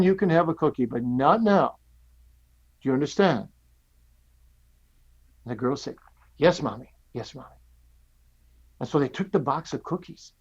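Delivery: put-on gentle storyteller voice for little kids; telling a story to children. Shown as a demonstration. Pastor telling children a cookie story, gentle and lively. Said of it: "I'll say it like I'm saying it to children".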